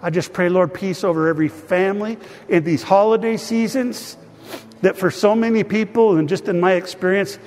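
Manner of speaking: earnest spoken prayer to God; a pastor praying over his people; pastoral prayer. Acted. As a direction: pray aloud for the whole congregation. Leads congregation in prayer.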